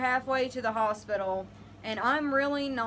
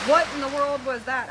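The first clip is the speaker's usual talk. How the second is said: loud, dumbfounded caveman cry; caveman SpongeBob; 4 semitones higher, 7 dB louder than usual. Retold or imitated. On the toilet, water breaks, startled caveman yell. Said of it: "like caveman SpongeBob on the toilet".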